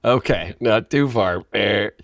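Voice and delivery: playful voice of the universe intervening; universe stepping in. Pretend. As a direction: halt him like a cosmic referee. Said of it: "The universe is like".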